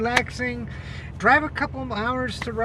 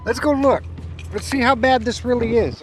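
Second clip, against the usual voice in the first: loud, fired up; 7 dB louder than usual. Real, not acted. About to show the desert.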